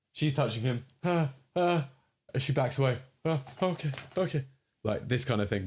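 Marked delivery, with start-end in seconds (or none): 1.0-1.9 scared gasps. Shown as a demonstration. Animator acting out scared character. 3.2-4.4 nervous okay. Shown as a demonstration. Animator acting out nervous character.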